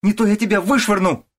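very high, loud shouted threat; wife threatens to throw her out; furious threat. A narrator's reading.

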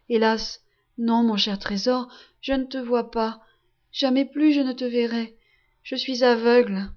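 a touch of grief, understated; mild sorrowful admission, gently; heartbreaking voice. Acted. Blind mother tells her son she cannot see him, mild heartbroken tone. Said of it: "répond d'une voix navrante".

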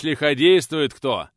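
loud, slow warning; guard warning the party; alarmed. Acted. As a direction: announce trouble ahead.

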